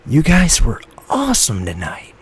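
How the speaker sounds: put-on high, loud whiny boy; whiny kid shout. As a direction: shout it like a whiny young teen. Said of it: "shouted with his whiny prepubescent voice".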